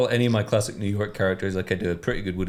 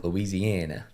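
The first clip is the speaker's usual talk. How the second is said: lightly voiced Louisiana accent; mock Louisiana drawn from the state's name; slower than usual. Shown as a demonstration. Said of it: "I do that too".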